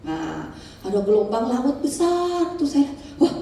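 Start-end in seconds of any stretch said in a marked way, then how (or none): 3.2-3.3 startled whisper. Retold or imitated. Sees huge wave, afraid.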